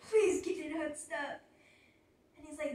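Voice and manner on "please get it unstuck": pleading through a nervous laugh; laughing plea. Retold or imitated. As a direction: laugh while begging him to hurry.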